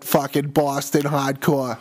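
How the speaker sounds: put-on light Boston accent, dropped r's; playful Boston drawl on hahdcoah. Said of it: "I really like speaking in a Boston accent".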